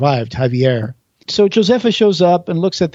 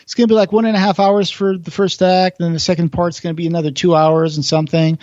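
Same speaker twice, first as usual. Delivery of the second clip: director warning; 4 semitones higher, faster than usual. Retold or imitated. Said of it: "the director was like".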